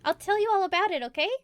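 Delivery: high, coaxing in-character voice; reassuring. Acted. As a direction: lift the pitch and end on a questioning okay.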